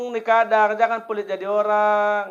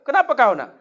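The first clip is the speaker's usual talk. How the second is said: scolding mother; 5 semitones higher, 4 dB louder than usual. Retold or imitated. Mother confronting child.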